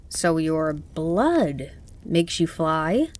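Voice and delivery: put-on slow, wondering boy. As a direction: ask it slowly like a curious boy. Boy asks Kiki, amazed.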